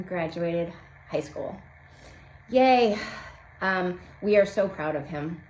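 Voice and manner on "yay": little cheer. Real, not acted. Cheering son's graduation.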